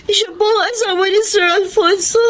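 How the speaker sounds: crying while explaining; tearful. Acted. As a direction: hold back sobs. Daughter tearful to mother.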